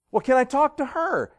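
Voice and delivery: loud, high exasperated question; upset boss. Acted. Boss asks little kid for mommy, loud and upset. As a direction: act a boss losing patience with a child. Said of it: "The boss was getting really upset".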